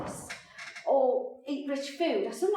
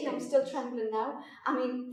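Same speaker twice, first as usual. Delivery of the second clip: ordinary talk, nothing marked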